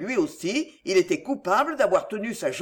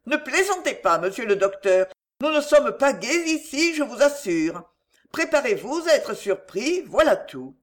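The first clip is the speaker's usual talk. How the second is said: higher-pitched maid, earnest warning; worried maidservant; 5 semitones higher than usual. Acted. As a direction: voice a maid gravely warning a visitor. Maid warns the doctor.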